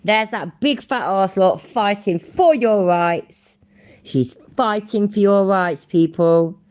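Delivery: sarcastic heckle at the woman filming; mocking. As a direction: jeer at her. Mocking the filmer.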